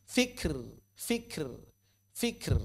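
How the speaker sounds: "Fikr" with only air after the k; short model "fikr" with aspirated k; breath on kaf. Shown as a demonstration. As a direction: softly puff the k of "fikr" into r, no vowel. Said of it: "kaf tidak diucapkan".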